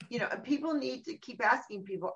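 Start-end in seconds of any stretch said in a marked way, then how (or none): none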